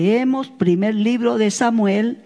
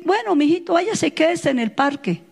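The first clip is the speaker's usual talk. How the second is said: higher, mock-permissive give-in; imitated indulgent mother; 5 semitones higher than usual. Mother lets child go to the park, mock indulgent. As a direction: play a mother who caves at once.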